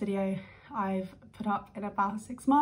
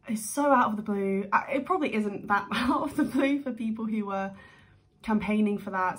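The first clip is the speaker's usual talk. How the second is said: excited; 4 dB louder than usual. Real, not acted. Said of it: "I'm excited".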